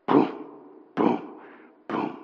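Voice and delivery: three short, spaced booms; imitated door pounding. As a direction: voice heavy knocks, one by one.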